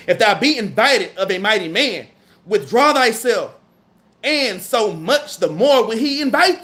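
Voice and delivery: slow, measured scripture reading; solemn Bible reading at an unhurried pace. Acted. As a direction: read the verse out deliberately, word by word. Reads scripture aloud slowly.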